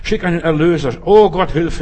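laut, hoch flehend; flehender Schrei. Retold or imitated. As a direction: um Hilfe schreien. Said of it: "sie schrien". (laut flehender Hilfeschrei)

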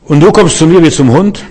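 mocking giant's taunt, rising at the end; höhnender Goliath. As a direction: sneer it like a scornful giant. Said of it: "Das ist die Reaktion von Goliath". (spöttischer Goliath, höhnisch fragend)

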